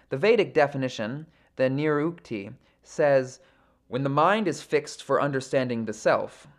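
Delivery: measured, formal read-aloud of sacred text; composed audiobook-style recitation; scripture reading. Acted. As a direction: read the commentary out evenly, phrase by phrase. Reads verse and purport aloud.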